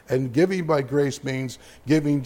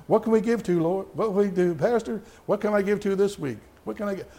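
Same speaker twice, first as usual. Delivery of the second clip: eager church members; 5 semitones higher than usual. Retold or imitated. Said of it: "church members who keep asking".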